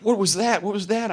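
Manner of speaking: high, startled mimicking of a shaken boy; rattled questions. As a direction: imitate someone spooked and bewildered. Retold shaken boy's startled questions.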